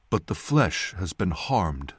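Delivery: slow, lightly voiced man; male voice. A narrator's reading. Young man doubts the healing, slow male voice. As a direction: object slowly, in a measured male voice. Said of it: "the man said".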